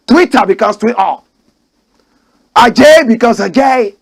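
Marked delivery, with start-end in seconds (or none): 2.6-4.0 Adjaye the second time with a British twist; lightly mock the British version of Adjaye. Mocking British speech to his viewers. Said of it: "you know how British people speak".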